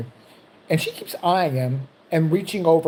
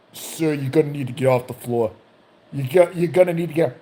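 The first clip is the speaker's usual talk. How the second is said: mildly officious guard voice; security guard. Acted. Security guard tells old man to get up, lightly officious. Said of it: "security guy comes over".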